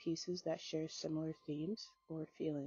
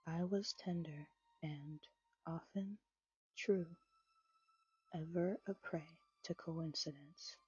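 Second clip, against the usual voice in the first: poem reading. A narrator's reading. Reads second poem aloud.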